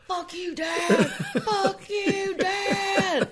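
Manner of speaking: high, loud laughing yell at Dad; retold furious yell. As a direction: shout it at your dad through laughter. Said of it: "I just hear Rob yelling".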